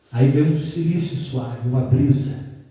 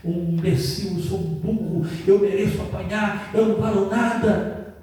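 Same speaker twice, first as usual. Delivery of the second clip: self-berating; 3 semitones higher than usual. Retold or imitated. Boy caught in rain scolding himself, self-berating. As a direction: beat yourself up under your breath, building slightly. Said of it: "eu fui me martirizando".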